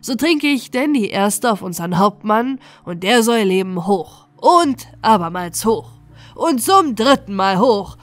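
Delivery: loud ceremonial cheer; rousing toast. Acted. Butcher toasts the captain before the band, loud rousing toast. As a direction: raise the glass and build to the cheer.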